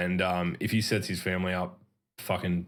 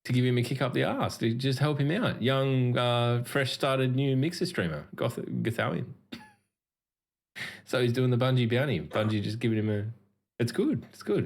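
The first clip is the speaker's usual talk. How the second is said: higher-pitched praise that could pass for sarcasm; sarcastic-sounding; 3 semitones higher than usual. Real, not acted. Co-host defending a streamer's bounty gig, sounding sarcastic. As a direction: talk up a good deed, sounding unintentionally sarcastic. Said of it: "I obviously sounded like I was being sarcastic".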